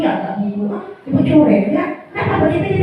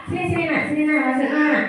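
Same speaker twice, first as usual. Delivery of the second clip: friendly teacher; 4 dB quieter than usual. Retold or imitated. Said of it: "Tapi kalau kita ramah".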